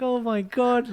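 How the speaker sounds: wife losing it over the menu, mock meltdown. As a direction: ham up a little meltdown. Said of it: "And it's like".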